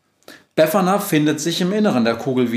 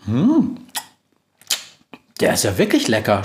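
smacking lips. A narrator's reading. Witch tasting the robot's cookie, chewing. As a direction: mouth full, chewing. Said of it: "schmatzt Befana".

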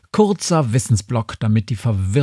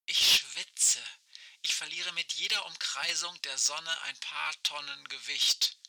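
crackling radio voice, much softer; like a far-off voice over a walkie-talkie; old rotary phone; 14 dB quieter than usual. Acted. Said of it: "Aisches Stimme knarzt durch das Funkgerät".

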